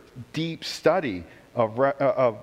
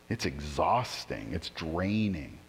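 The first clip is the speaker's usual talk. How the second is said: softer, lower, slow and spent; weary, quiet; 7 semitones lower, 7 dB quieter, slower than usual. Real, not acted. Pastor to congregation about trying to be good, softer, lower and slow. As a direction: let it sag out of you, worn down.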